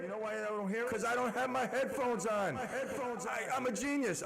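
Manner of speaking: radio station ID with repeating echo; echo effect. Shown as a demonstration. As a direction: voice bouncing back in echoes. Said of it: "I'm gonna go to Echo".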